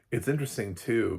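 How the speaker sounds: ordinary talk, nothing marked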